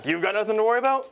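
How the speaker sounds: high, fast laughing echo; laughing disbelief. Real, not acted. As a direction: scoff at it through laughter. Mocking opponent's claim.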